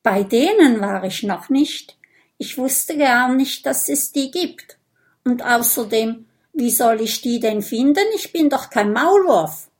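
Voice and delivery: a hint of a huffy vampire boy; vampire boy, a little indignant. Vampire boy explains blood tasting to Lulu, mildly indignant.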